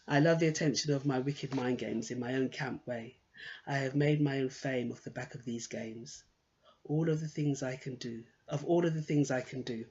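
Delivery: quiet, deliberate verse reading; poem reading. Acted. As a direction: read your own poem aloud, understated. Reads her poem aloud.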